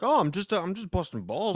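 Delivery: high, sheepish caller voice; whiny caller. Retold or imitated. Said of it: "they're like".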